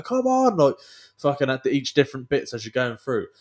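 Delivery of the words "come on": retold marshal shout. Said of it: "they got the guys there going".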